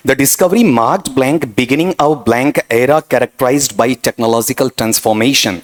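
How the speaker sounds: reading the question aloud very slowly; slow dictation. Shown as a demonstration. Teacher dictating a test sentence to students, slowly. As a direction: spell out each word like dictation to a class.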